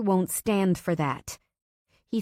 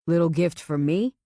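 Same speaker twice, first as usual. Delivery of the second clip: smirking; 5 dB louder than usual. Acted. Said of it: "he smirks".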